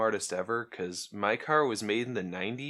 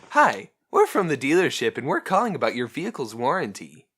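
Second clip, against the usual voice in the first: quick, higher scripted sales pitch; rushed scripted telemarketer; 4 semitones higher, 6 dB louder than usual. Retold or imitated. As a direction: rattle off the robocall script. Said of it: "I got that on camera".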